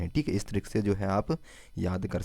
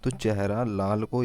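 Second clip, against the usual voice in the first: slow mnemonic. Shown as a demonstration. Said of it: "Mizoram को क्या बोला है हमने?".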